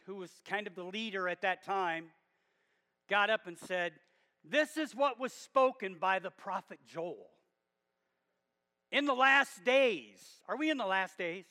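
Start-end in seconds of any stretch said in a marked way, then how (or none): 4.4-10.4 Peter's bold declaration, building to a loud finish; bold proclamation. Retold or imitated. Peter answering the crowd at Pentecost, boldly proclaiming. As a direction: proclaim it boldly, stretching out the last phrase. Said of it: "So Peter boldly".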